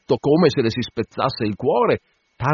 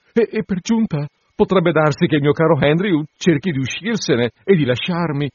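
high, pleading, still teary whisper-close plea; tearful bride; 6 semitones higher than usual. Acted. Tearful bride pleading in the clerk's ear, high and anxious. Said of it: "ancora tutta lacrimosa".

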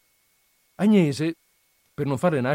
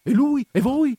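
high, chirpy show of attention; feigned interest; 8 semitones higher than usual. A narrator's reading. Agnese humouring Perpetua to keep her chattering, feigned interest. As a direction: egg the chatterer on, pitch jumping up. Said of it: "per far vedere che stava attenta o per ravvivare il cicalio".

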